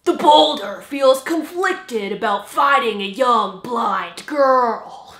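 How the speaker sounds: loud, hammed-up wrestler voice; lightly voiced showboating wrestler; boastful wrestler. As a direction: announce yourself like a pompous fighter.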